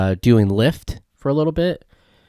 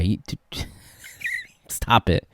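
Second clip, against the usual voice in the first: laughing disbelief; 9 dB quieter, slower than usual. Retold or imitated. Laughing at Ronnie's claim.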